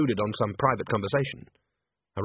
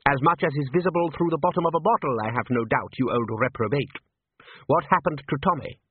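dry sardonic manager; 3 semitones higher than usual. Acted. Salzella scorns the old drunk.

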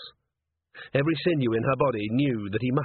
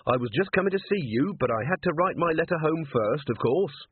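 cheerful, higher-pitched chatter; friendly, upbeat greeting; 5 semitones higher than usual. Acted. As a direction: keep it sunny and guileless. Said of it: "said Carrot cheerfully".

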